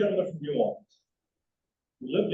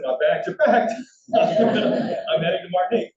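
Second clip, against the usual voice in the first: louder, laughing, all in for the trip; eager laughing reply; 5 dB louder than usual. Retold or imitated. Telling Doug he's ready to go to Martinique, eager and laughing. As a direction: jump at the chance with a laugh.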